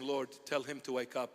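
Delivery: softly, almost to himself. Retold or imitated. Padre Pio at the altar, very soft prayer. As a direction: speak it gently to the Lord. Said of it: "with a very, very soft tone".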